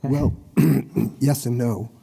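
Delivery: rough, strained voice after losing it; hoarse voice. Real, not acted. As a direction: speak through a hoarse, worn-out throat. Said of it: "I lost my voice last week".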